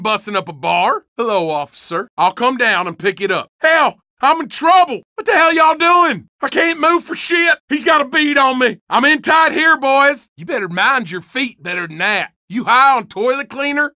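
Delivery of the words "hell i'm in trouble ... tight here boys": shouting. Acted. Pinned down in a gunfight.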